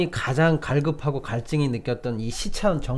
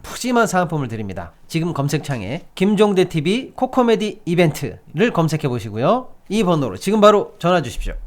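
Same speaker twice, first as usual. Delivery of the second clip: upbeat sales pitch read; hard sell ad. Acted. Reads a live ad.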